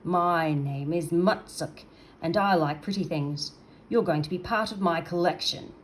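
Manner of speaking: a big menacing creature savouring his catch; gloating monster. Acted. Mutsuk creature voice.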